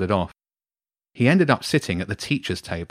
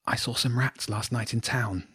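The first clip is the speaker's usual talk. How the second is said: hushed, softer voice; whispering; 2 semitones higher, 6 dB quieter than usual. A narrator's reading. Jenny telling James about the rats, whispering. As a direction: confide it under your breath. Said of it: "Jenny whispered".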